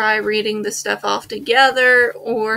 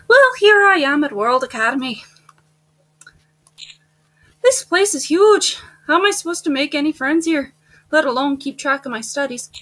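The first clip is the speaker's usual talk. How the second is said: put-on higher-pitched Irish accent; 4 semitones higher than usual. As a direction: put on an Irish lilt for the new student. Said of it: "let me get into my Irish accent".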